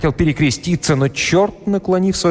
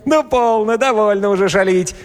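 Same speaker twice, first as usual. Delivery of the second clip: very high, amused protest; squealing devil; 11 semitones higher than usual. A narrator's reading. Devil caught by the tail, squealing to stop the pranks. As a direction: squeal like a devil making light of it. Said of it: "закричал, смеясь, чёрт".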